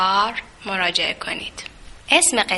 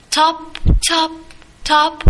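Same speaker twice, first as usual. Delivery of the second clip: short, punchy knocks, higher than the narration; thumping sound; 5 semitones higher than usual. A narrator's reading. Sound of the fox striking the tree, imitated thumps. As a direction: voice each thump as a separate hit.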